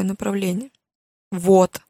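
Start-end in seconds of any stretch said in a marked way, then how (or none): 1.3-1.8 a loud triumphant exclamation. Acted. Mother finding the book, loud and triumphant. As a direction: bark it out as if you caught her. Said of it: "победно произнесла она".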